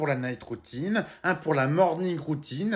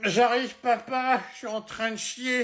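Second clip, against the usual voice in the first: higher, lightly voiced young son calling back; a kid shouting back from the toilet, higher; child voice; 7 semitones higher than usual. Son answers father from the toilet.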